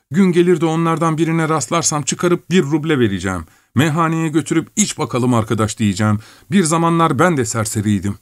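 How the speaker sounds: put-on a naive boy picturing his return; Şakro daydreaming.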